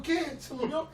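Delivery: high, loud, half-laughed wail; a hammed-up panicked mother; mother fearing her daughter died, mock sobbing; mock crying mother.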